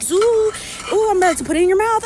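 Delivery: put-on high, loud, fast sing-song for a toddler; crouched down feeding a little kid, playful high voice; airplane game voice. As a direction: play the spoon-airplane game with a small kid. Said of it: "doing the little airplane thing".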